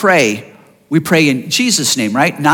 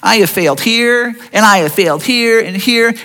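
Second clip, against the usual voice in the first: mildly voiced guilty prayer, a touch louder; self-pitying prayer; 3 semitones higher, 3 dB louder than usual. A believer praying in mock self-pity. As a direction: confess like you don't deserve it. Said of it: "Do I pray and say".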